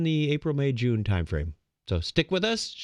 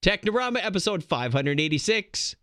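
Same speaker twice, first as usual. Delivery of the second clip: podcast announcer; 8 semitones higher, slower than usual. Acted. Show opening announcement.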